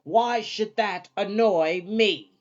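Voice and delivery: put-on slow, biting old-woman sarcasm; sarcastic old Sophie. A narrator's reading. Old Sophie sarcastically listing Hal's tantrum damage to him.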